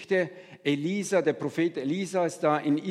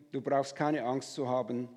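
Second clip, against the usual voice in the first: reassuring; 2 semitones lower than usual. Acted. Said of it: "doch Elisa beruhigte ihn".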